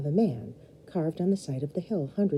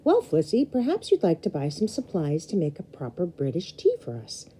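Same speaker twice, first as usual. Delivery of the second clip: quite loudly. Acted. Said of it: "said the Graham quite loudly".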